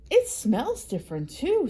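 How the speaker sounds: lightly voiced bird. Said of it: "said Bird".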